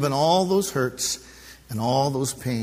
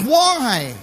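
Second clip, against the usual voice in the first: crying out; 10 semitones higher, 6 dB louder than usual. Acted. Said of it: "but he cries out".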